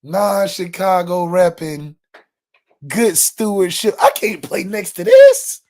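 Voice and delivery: slow, drawn-out mock player voice; mocking Riley Mills. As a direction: drag each phrase out slowly, half-mocking. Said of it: "was like".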